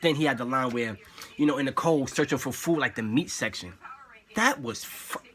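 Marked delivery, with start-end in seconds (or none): 4.3-5.2 rough, growled hype; gritty voice. Shown as a demonstration. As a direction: rasp it out with hype. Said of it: "Gwitty voice".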